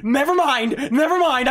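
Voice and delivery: yelling never mind in fear; panicked yell. Real, not acted. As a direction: shout it in panic.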